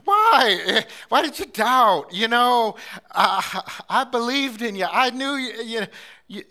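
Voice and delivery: Jesus calling out to Peter, why did you doubt; impassioned plea. Acted. Jesus pleading loudly with sinking Peter, crying out.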